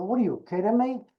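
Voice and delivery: his old kid accent, put on; thick youthful street accent. Shown as a demonstration. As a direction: rattle it off in a rough neighborhood accent. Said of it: "a kid that talked like this".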